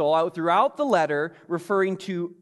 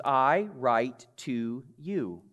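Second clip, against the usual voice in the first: slow reading; 3 semitones lower, much slower than usual. Shown as a demonstration. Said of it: "It's kind of a, a present tense".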